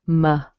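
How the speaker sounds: "Ma-li-sa" as muh, LISS, uh with gaps; syllable by syllable. Shown as a demonstration. Teacher showing the schwa, "Ma-li-sa" split up. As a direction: break "Ma-li-sa" into three separate syllables. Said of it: "but it's a schwa".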